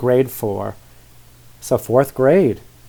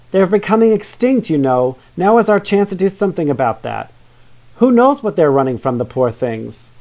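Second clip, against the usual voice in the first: passionate; 4 semitones higher than usual. Acted. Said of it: "passionately declare her desire".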